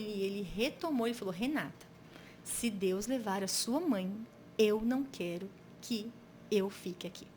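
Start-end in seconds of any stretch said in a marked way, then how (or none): 1.3-7.3 slow, measured father's plea, lightly voiced; retold solemn wish. Sick father tells his daughter his wish, retold solemnly. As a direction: spell it out slowly, pausing between phrases.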